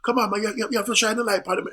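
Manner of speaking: loud, high Jamaican patois; Jamaican promoter. Retold or imitated. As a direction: call out to the crew in a Jamaican accent. Acts out Jamaican promoter calling to spotlight man.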